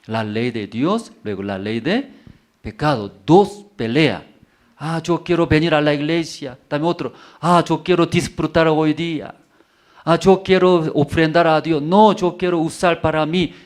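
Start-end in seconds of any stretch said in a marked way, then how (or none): 4.8-13.5 higher, louder voice of the tempted believer; voicing the inner struggle. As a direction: act out the heart torn between church and pleasure. Predicador actúa la lucha interior. (voz del creyente tentado)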